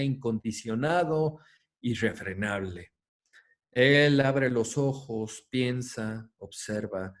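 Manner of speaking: measured, reverent reading of scripture; solemn text reading. Acted. Lecturer reads the Upanishad aloud to his students, solemn reading. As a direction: read it out like a sacred text, unhurried.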